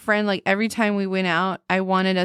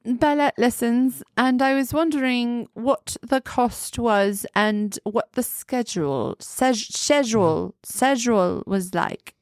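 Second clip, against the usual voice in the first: lightly hammed British accent; put-on British accent; 3 semitones higher than usual. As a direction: ask politely in mock British. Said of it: "British accent conversation".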